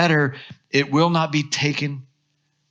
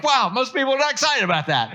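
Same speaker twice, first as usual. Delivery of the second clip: mock amazed; 10 semitones higher, faster than usual. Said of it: "I'm like".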